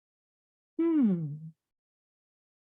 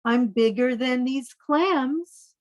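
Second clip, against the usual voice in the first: slow, proud boast of a big squid; boastful giant squid; slower than usual. Acted. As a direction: puff up and brag like a huge squid.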